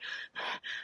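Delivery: soft retold gasp for air; breathless gasp. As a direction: mimic being unable to breathe. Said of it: "I can't even breathe".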